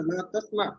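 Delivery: ला तस्मा with no u at the end; final jazm. Shown as a demonstration. Teacher repeating the correction for a student, final jazm. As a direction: close तस्मा on a vowelless ain. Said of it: "आइन के ऊपर जज़म है".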